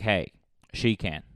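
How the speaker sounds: triumphant rally cry; hammed-up triumphant reply; cheering villager. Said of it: "someone's gonna be like".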